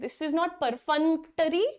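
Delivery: each word drawn out slowly; slow model sentence. Shown as a demonstration. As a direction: slowly demonstrate the word for the class. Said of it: "pronunciation ध्यान से देखिए". (धीमा उदाहरण)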